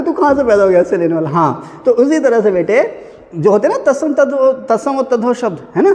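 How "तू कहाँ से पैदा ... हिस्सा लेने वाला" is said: quick mock indignation, fast; tossed off, half-laughing rebuke; uncle's mock outrage. Teacher acting the uncle scolding the nephew, quick and mocking. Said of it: "चाचा कह रहा है कि".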